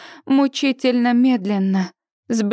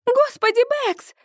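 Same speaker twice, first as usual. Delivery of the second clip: much higher, triumphant cry; excited shout; 10 semitones higher than usual. A narrator's reading. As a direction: shout the find back to the others. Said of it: "кричит Сьюзи".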